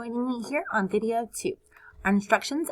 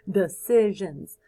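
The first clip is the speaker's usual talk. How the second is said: laughing; 2 semitones lower, 4 dB louder, slower than usual. Shown as a demonstration.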